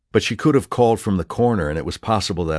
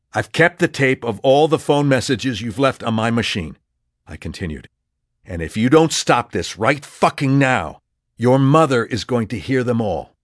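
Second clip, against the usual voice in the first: forceful threat; 5 semitones higher, 3 dB louder than usual. Acted. Threatening Ava on phone.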